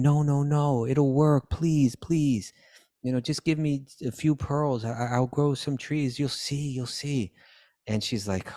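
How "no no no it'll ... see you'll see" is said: put-on eager pleading child, pitched a little up; begging child. A hint of Krishna begging his mother. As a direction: beg sweetly for pearls. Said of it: "when he's begging".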